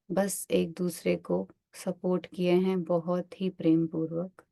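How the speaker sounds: unhurried meditation instructor, drawing out key words; guided meditation. Acted. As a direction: guide listeners gently into relaxation, one phrase at a time. Leads a body-scan meditation.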